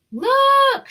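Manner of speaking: high, loud excited cry; child's shout. A narrator's reading. A child spots the elves, shouting high and loud. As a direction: call it out like a thrilled kid. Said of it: "shouted one of the children".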